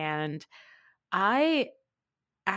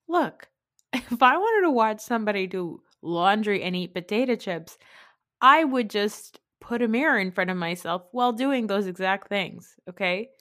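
laughing rant; 5 dB louder than usual. Real, not acted. Laughing rant about the episode.

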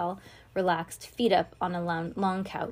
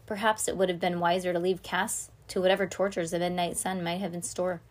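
usual speaking voice

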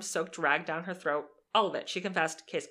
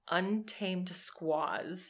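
slow reading of quoted slur; 4 dB quieter, much slower than usual. Retold or imitated.

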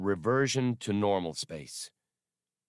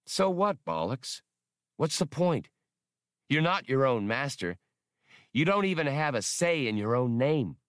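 higher, pushy, scornful voice; incredulous Han; 5 semitones higher than usual. Acted. Han scoffing at the droid's choice, higher and scornful. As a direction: needle the droid with disbelief.

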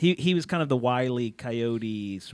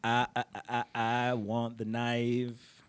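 movie quote; 6 dB quieter, much slower than usual. Retold or imitated. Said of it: "You guys know that reference".

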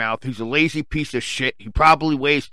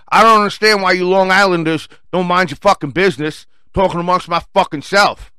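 acted irritation; 4 semitones higher, 5 dB louder than usual. Retells irritated outburst at stranger.

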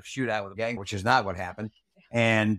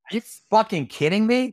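high, loud outraged yell; furious retold shout, pitched high; retold blow-up; 10 semitones higher, 8 dB louder than usual. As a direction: shout it at the commander in disbelief. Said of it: "blew up".

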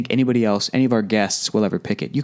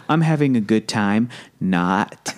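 sarcastic; 2 semitones lower, slower than usual. Retold or imitated. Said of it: "I always say".

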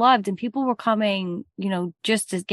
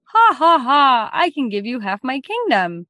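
boastful laughing king; 4 semitones higher, 3 dB louder than usual. Acted. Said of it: "And he's like".

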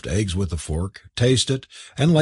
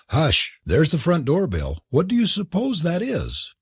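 put-on young lady voice; 7 semitones higher than usual. A narrator's reading. Kathleen's lines in the story.

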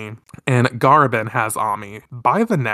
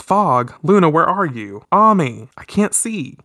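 panicked calling; 5 semitones higher than usual. Acted. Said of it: "Usagi says".

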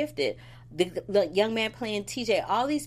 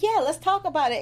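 high, loud retold quote; mock eagerness; 11 semitones higher, 6 dB louder than usual. Retelling the awkward moment with Alexis, high mock eagerness. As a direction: pitch it way up, hammed up.

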